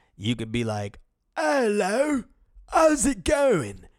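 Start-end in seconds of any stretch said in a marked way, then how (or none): 1.4-3.8 put-on very high, swooping, frail old man, British accent. Sharing a trick for doing accents: feeble old british man voice. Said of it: "if you sound like a fucking old ass feeble British man".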